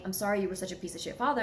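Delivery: rattled off fast, half-spat; fast, bitter recital; rushed bitter apology. Retold or imitated. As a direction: blurt it out quickly like an old grudge. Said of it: "So I started off saying".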